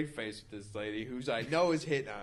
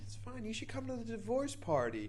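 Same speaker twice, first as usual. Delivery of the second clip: high, soft imitation of the woman; breezy reassurance; 12 semitones higher, 5 dB quieter than usual. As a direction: imitate her waving it off, high-pitched and quieter. Woman brushing off an apology.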